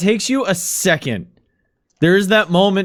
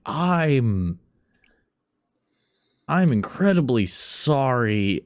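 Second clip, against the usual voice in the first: lightly voiced nervous clerk; hesitant, apologetic phone call; apologetic morgue clerk; 4 semitones lower than usual.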